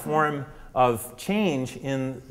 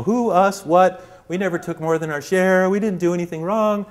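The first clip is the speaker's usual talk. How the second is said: defensive; 5 semitones higher, 3 dB louder than usual. Retold or imitated. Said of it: "They're all defensive".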